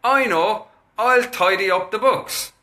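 put-on high, eager toddler voice; three-year-old. Three-year-old standing in bed, eagerly offering to tidy. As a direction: chirp it out like a keen toddler. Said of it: "the three-year-old... he said".

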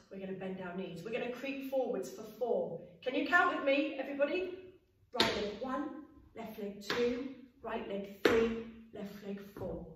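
put-on teaching a child to count. Shown as a demonstration. Creeping quietly so grown-ups sleep.

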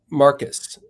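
"Marcus" stressed on the first syllable, ending in s; corrected pronunciation. Shown as a demonstration. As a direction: say "Marcus" as "MAR-kus", with the s sounded. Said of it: "S at the end".

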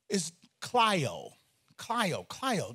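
kleio said as KLY-oh, slow and clear; Greek word kleio. Shown as a demonstration. Pastor teaches the congregation the Greek word, kleio said as KLY-oh. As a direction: spell out kleio as KLY-oh, stressing the first syllable. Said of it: "the word that he uses".

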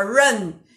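"Run" with the R curled back to the palate; teacher demonstrating a retroflex R in "Run". Shown as a demonstration. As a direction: roll the R of "Run" up on the roof of the mouth. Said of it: "Igual aqui no interior de São Paulo".

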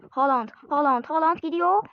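excited commentary call. Real, not acted. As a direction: build it up like a goal chance. Excited football commentary build-up.

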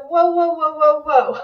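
loud, stunned whoas that build. Retold or imitated. Teacher hearing a student's success, loud amazed whoa. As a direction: stop everything, you can't believe it.

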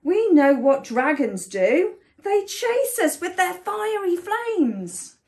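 indignant storybook mouse; accusing mouse. A narrator's reading. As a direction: accuse the dragon with rising pitch.

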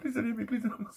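mocking the man pleading while laughing. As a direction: mimic his begging through laughter. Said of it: "He fucking literally went".

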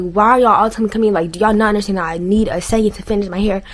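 fast, loud exasperated outburst; loud frustrated rant at everyone telling her to come eat; retold frustration. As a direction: snap at the family all at once. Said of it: "I just got frustrated".

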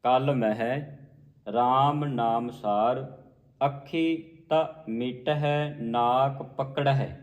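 slow recitation, clear stop after ਪਕੜਹਿ; rests on ਮਹਿ, ਪਕੜਹਿ. Shown as a demonstration. Teacher showing the rests, slow with pause after ਪਕੜਹਿ. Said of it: "ਪਕੜਹਿ ਤੇ ਵਿਸਰਾਮ ਲਾਉਣਾ ਹੈ".

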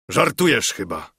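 mild narrated exclamation of disbelief; lightly acted protest; exclaimed. A narrator's reading. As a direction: exclaim it with restraint. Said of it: "zawołał".

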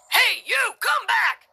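high-pitched frightened yell; frantic shout. A narrator's reading. Police officer shouting after escaping man, frantic. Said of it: "came the frantic voice of a police officer".

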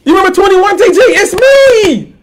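fake-sob to guilt your friend; mock crying plea. Mock pleading with rival.

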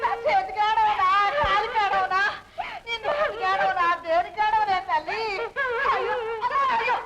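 slow, sobbing lament; keen over the family's fate; mother lamenting her daughter's lost speech; tearful lament. Acted.

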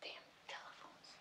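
whispered swearing to oneself; very soft, voiceless grumble; muttered curse. Acted. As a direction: curse under your breath, barely audible. Cursing to self after the call.

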